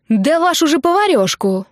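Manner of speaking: high, loud indignant yell; furious shout. Acted. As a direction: blow up at the others. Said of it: "возмущённо заорала она".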